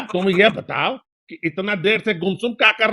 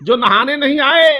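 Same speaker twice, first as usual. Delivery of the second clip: shayari recital. Pretend. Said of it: "अर्ज है".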